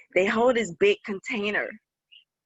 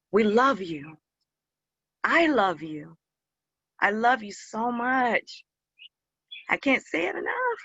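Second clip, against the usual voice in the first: fighting back tears while saying I love you; tearful. Real, not acted. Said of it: "I didn't mean to cry".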